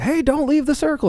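mock shrill, very high shrieking yell. Retelling a horror movie scene where friends warn a girl: imitating friends screaming. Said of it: "Their friends are literally screaming".

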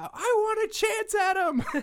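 piercing shriek, very high and very loud. Recapping a ball scene, a speaker acts out a character's outburst: retelling a scream. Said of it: "she just screams out".

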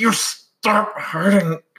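mock angry, high, slow scolding tone. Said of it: "be like".

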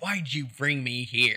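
put-on slow, drawn-out old hag voice. Quoting what a man said, in an old hag voice. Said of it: "He just sounded like this old hag".

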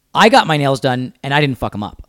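usual speaking voice

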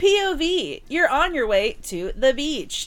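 high synthetic AI text-to-speech narration voice. Joking about AI voiceovers, the speaker imitates one in an AI voiceover voice. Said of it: "I wonder who did that voiceover".

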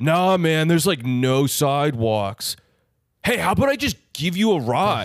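laid-back California dude voice. Retelling a man offering a ride into the city, imitating a California guy. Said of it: "this is exactly how he talks".

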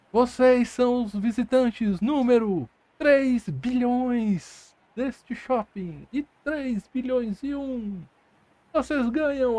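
chattering, high, tiny robot voices. As the players enter the mall, chattering mall robots greet them. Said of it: "Um monte de robozinho em volta de vocês".

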